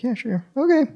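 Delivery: high, mocking yeah sure; sarcastic disbelief. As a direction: say it like you don't buy a word. Friend doubts his story.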